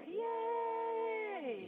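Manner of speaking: high, bright mock-cheer; excited cheer. Real, not acted. Red Cross worker cheers the two-gallon milestone, high excited shout. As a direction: cheer him on like a party.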